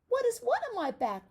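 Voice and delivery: very high, loud puzzlement; high puzzled lamb; surprised lamb. Acted. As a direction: ask it bewildered like a lamb.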